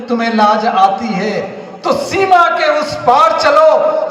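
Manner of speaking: emphatic declaimed Hindi verse; poem recitation. Acted. Reciting Partition verses to the audience, emphatic recitation. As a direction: declaim it, stretching the weighty phrases.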